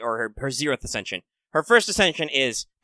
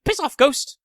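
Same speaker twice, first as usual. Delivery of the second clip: high, louder dismissive yell; mock shout; 4 dB louder, slower than usual. Emperor shooing off the ghost lady, mock yell. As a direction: shoo the ghost away with a bark. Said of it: "Shinchi Wang is like".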